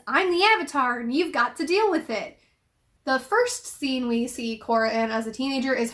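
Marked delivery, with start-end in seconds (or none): 0.1-2.4 lightly voiced bratty little kid; a hint of a kid declaring it, pitch lifted at the start; mildly acted child's proclamation; small child's boast. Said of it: "Her very first line as a small child is".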